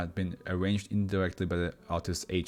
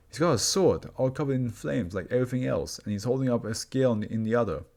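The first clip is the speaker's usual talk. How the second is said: agitated test subject; 2 semitones higher than usual. Acted. Subject describes the vision.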